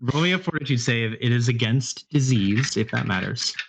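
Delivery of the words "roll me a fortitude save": amused call for a roll; laughing. Real, not acted. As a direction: ask with leftover laughter in the voice. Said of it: "I'm laughing at the result".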